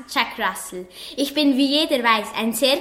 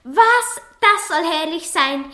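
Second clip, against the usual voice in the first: indignant shock; 5 semitones higher, 3 dB louder than usual. Acted. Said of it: "vor Entrüstung".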